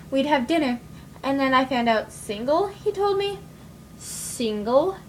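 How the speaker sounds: sly, deadpan murderess telling her story; monologue from a musical number. Acted. Murderess tells the audience why he had it coming, sly and deadpan. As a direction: confess the killings with dry relish.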